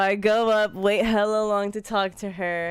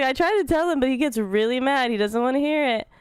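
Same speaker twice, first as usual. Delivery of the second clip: lightly voiced whiny clerk, higher; a hint of a nervous clerk excusing herself; mock clerk; 5 semitones higher than usual. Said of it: "She's like".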